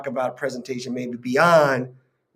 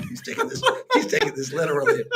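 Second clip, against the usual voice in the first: words squeezed out through high laughter; laughing. Real, not acted. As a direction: laugh your way through the line. Laughing at partner's literal answer.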